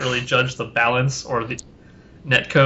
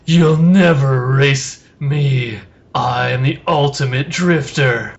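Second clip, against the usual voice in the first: Liam O'Brien voice; 4 dB louder, much slower than usual. Retold or imitated. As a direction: drag out each word like a smug villain. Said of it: "You know, the Liam O'Brien voice".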